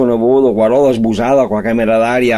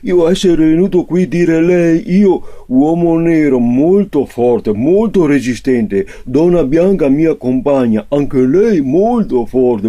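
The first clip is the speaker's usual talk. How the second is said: broken Italian customer; 3 semitones higher, slower than usual. Acted.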